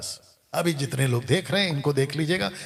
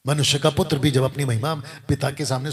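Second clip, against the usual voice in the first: ordinary delivery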